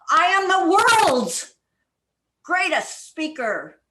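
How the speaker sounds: the hit high and loud; stress on the. Shown as a demonstration. Coach shows stress on the to the club. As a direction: punch the word the. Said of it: "one word at a time as if it is the most important".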